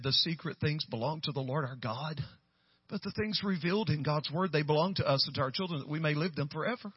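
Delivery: lightly imitated reader, lifting at phrase ends; retold rereading. Michelle reading the verse again, lightly voiced rising read. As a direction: run the verse on with rising, tentative endings.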